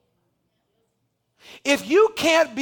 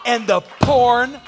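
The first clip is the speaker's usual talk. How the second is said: building shout. Real, not acted. Preacher pleading with congregation, building shout. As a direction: drive it up to a shout.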